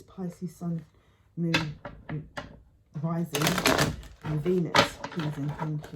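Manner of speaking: hushed aside in a prayer; whispered. Real, not acted. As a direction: breathe the sign's name under your breath. Whispered request to the angels.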